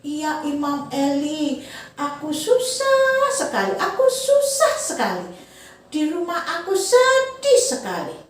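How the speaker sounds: high, sing-song wailing lament; mournful chanted complaint, played for kids; sad mother Hana. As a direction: sing out her sorrow like a grieving mother to children. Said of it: "Terus Ibu Hana bilang gini".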